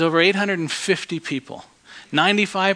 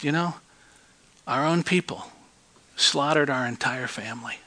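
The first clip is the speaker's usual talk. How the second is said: quiet testimony; 3 semitones lower, 6 dB quieter than usual. Retold or imitated. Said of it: "I just looked at him and I said".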